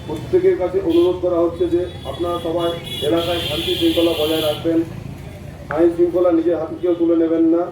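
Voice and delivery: public address through a loudspeaker; police loudspeaker announcement. Real, not acted. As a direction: announce it over a street loudspeaker. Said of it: "police প্রশাসনের মাইকিং".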